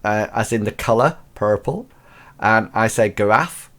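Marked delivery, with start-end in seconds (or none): 3.1-3.7 "giraffe" with a hard k start, like kuh-raffe; quirky giraffe. Shown as a demonstration. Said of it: "I say certain words strangely".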